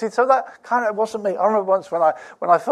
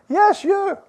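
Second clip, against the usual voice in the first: much higher, louder insistence on yes; emphatic yes; 14 semitones higher, 5 dB louder than usual. Real, not acted. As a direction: shout it out to the one who doubts. Preacher answers a doubting listener.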